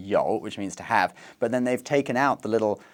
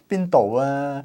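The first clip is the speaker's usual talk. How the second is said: slightly raised mock sing-song with long "ah"; playful sing-song imitation; imitated Cantonese sing-song; 3 semitones higher, 4 dB louder, slower than usual. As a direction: mimic a Cantonese speaker, stretching the ending. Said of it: "It's like a sing-song".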